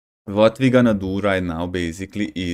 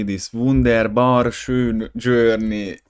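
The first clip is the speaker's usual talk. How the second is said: mock German; 4 dB louder, much slower than usual. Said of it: "pretending to have German accent".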